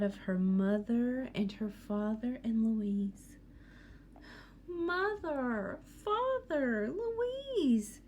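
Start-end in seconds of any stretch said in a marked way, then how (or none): 4.7-8.0 high, rising calls to each name; higher and higher on each name; crying out for family. Acted. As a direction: call out to them, lost and scared. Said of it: "she cried".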